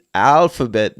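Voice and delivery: ALPHABET with a clear F for the PH. Shown as a demonstration. Teacher explaining the PH, alphabet said with a clear F. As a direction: sound the PH in "alphabet" as F. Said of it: "the P H is the sound of F".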